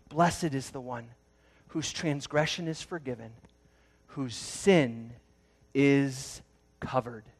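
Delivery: softly relieved Blessed, ending slowly on covered; quiet relieved reading. Shown as a demonstration. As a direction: breathe it out gently, like relief. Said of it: "he just breathes".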